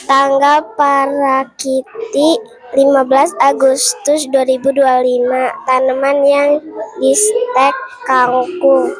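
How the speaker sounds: distant, barely heard; far from mic. Real, not acted. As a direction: read too far from the mic. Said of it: "Suaranya kedengaran tidak?".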